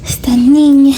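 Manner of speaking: loud exasperated sigh of a phrase; fed-up mock despair at the dog. Real, not acted. Repeated exasperation.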